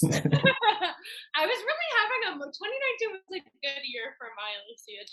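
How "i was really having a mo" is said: high, slowed words breaking up in real laughter; laughing. Real, not acted. Guest cracking up at her own tweet, laughing through the words. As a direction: laugh through it until the words fall apart.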